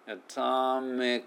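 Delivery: slow "Atomic" with the final K only caught, not released; held K. Shown as a demonstration. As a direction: stop the breath on the K of "Atomic". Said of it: "Kは息捕まえるだけ".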